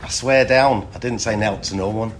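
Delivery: Mancunian accent impression; attempted Manchester accent. Contestant takes their turn for the host, Manchester accent. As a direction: give your best Manchester accent. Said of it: "give me your best Manchester accent".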